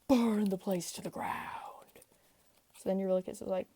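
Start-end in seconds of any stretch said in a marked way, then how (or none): 0.1-2.0 slow whispered order; grim whisper. Acted. Odysseus ordering his second in command, slow whisper. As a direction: hush it like a dark command.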